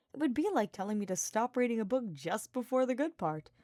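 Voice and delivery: smirking Sylvain. Acted. Sylvain refusing to drop the Ferdinand topic, gleeful. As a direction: relish refusing to let it go. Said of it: "Sylvain smirked".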